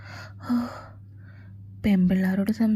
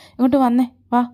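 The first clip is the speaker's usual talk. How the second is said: angry command; 3 semitones higher, 6 dB louder, faster than usual. Acted. Angry boyfriend orders her over.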